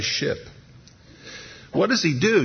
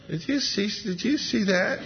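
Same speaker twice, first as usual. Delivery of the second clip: soft, high awed question; a disciple nudging his friend, hushed; 7 semitones higher, 5 dB quieter than usual. Retold or imitated. Disciple asks the other, in a hushed high voice.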